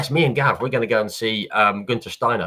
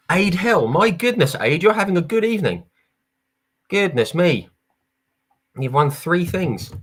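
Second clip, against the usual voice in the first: higher and louder, delighted to read out the name; excited winner reveal; 7 semitones higher, 4 dB louder than usual. Real, not acted. Host announcing a raffle winner to the stream, excited and high. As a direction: burst out with the name like a game-show host.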